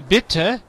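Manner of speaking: "bitte" with a short i and crisp double t. Shown as a demonstration. Teacher corrects the student's vowel, short "bitte". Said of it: "es corte".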